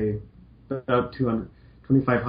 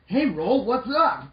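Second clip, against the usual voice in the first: lightly voiced Mega Man; 12 semitones higher, slower than usual.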